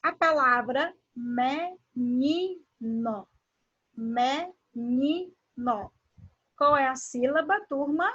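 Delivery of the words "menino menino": "menino" split into me, ni, no; each syllable of "menino" held apart. Shown as a demonstration. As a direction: sound out "menino" very slowly, pausing between syllables. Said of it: "é pronunciado de uma maneira mais forte".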